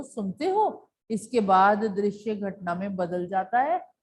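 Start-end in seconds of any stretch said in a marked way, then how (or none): 0.0-0.9 a call pitched higher, asking are you listening; mock call from another room. Shown as a demonstration. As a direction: lightly call out like someone at the door. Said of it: "मानो किसी ने आवाज लगाई हो".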